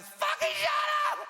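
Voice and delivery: shrill high furious shout, slow; mum yelling. Retold or imitated. Mum yelling at her noisy child, high furious shout. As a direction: scream it like a fed-up mum. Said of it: "My mum goes".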